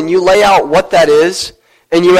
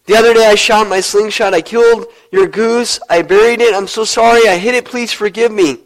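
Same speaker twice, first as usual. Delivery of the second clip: higher, pleading confession with a touch of tears; tearful plea; 4 semitones higher than usual. Acted. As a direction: beg grandma for forgiveness, mildly weepy. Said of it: "He broke down in tears and said".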